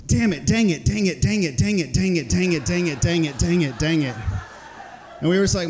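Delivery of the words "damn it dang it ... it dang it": mom covering a swear. Retold or imitated. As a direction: cover the slip by chanting dang it. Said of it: "So I'll give you an example".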